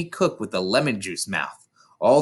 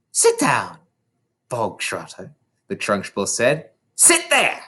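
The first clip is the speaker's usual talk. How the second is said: Trunchbull voice. Acted. Trunchbull orders.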